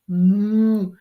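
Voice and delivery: a short imitated cow moo; mock moo. Describing the pasture cows at dawn, a mock moo. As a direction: moo like the cows next door. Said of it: "they're over there".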